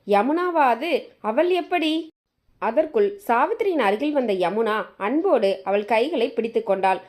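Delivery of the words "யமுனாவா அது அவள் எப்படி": higher, slow, stunned disbelief. Acted. Mother-in-law recognising her late son's wife, higher and stunned. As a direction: ask it as if you can't trust your eyes. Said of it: "அவளால் நம்ப முடியவில்லை".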